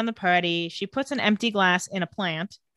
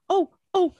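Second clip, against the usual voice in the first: high, mock-innocent nagging questions; mocking high whine imitating a nosy kid; mocking whiny kid; 8 semitones higher than usual. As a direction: parody a pestering teenager.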